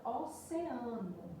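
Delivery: OCEANO slowed down, vowels kept apart; syllable by syllable. Shown as a demonstration. Teacher giving an example of hiatus, OCEANO slow, syllable by syllable. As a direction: sound out "oceano" slowly by syllable. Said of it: "exemplo de um encontro vocálico hiato".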